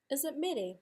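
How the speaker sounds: "Is it mere?" pitched high, doubtful; high falling "Is it mere?"; questioning tune. Shown as a demonstration. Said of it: "give that another go".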